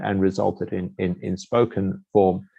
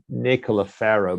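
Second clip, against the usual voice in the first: "Nicola Ferro" stretched out slowly; slowed down. Shown as a demonstration. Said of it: "maybe you just slow down a little bit".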